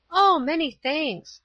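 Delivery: high, drawn-out thanks; grateful exclamation. A narrator's reading.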